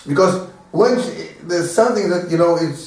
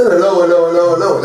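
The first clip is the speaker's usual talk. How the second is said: cheery greeting; 5 dB louder, faster than usual. Retold or imitated. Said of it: "You say".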